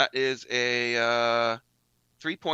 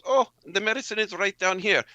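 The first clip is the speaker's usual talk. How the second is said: higher, louder sing-song feint; Sister B's sweet ruse; 9 semitones higher, 6 dB louder than usual. Acted. Sister B pretends to fetch her medicine, sing-song. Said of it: "and she goes".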